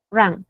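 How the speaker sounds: "run" with a short a sound; short vowel. Shown as a demonstration. Teacher showing students the first form, short clipped vowel. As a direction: keep the vowel in "run" brief. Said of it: "Esta es como una A corta".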